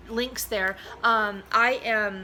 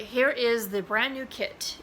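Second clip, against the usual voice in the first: usual speaking voice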